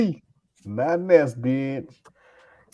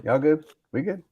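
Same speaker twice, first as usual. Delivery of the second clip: wrestling promo; 5 semitones higher, 4 dB louder than usual. Acted. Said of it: "It sounded like you're doing a promo".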